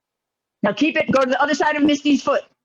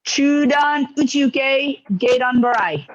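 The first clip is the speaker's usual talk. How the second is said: each word drawn out, slow and separate; slow repeat; slower than usual. Shown as a demonstration. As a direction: say it slowly for a student to follow. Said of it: "Say that again slowly".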